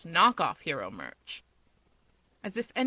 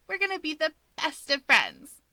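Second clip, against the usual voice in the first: grinning; 8 semitones higher than usual. Acted. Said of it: "she grins".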